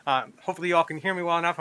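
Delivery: muffled by a mask; through a face mask. Real, not acted. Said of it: "I'm wearing a mask right now".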